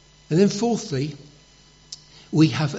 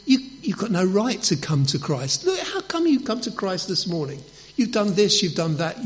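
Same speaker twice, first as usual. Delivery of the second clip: higher-pitched, indignant accusation; accusing Satan; 6 semitones higher than usual. Acted. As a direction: challenge them like a hostile prosecutor. Satan accusing believers of sin.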